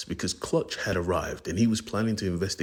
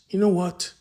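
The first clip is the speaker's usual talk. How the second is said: much higher, louder challenge; sudden loud threat; loud burst; 12 semitones higher, 6 dB louder than usual. Acted. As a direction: explode into it. Blood confronts Raptor.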